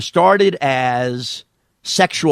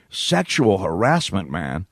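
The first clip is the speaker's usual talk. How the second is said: slow, lower query of the name; incredulous repeat; 4 semitones lower, slower than usual. Acted. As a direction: repeat it slowly, word by drawn-out word. Radio host repeats the caller's name.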